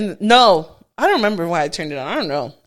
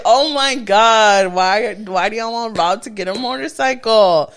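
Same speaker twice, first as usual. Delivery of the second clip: retold dismay; 4 dB louder than usual. Woman to his best friend about a motorcycle, mock dismay.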